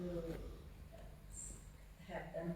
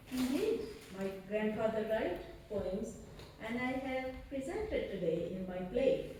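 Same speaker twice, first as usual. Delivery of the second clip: higher-pitched, emphatic comeback; retold insistence; 4 semitones higher than usual. Grandchild answers the doubt about grandfather's poems, mock-insistent. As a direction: imitate a grandchild firmly setting someone straight.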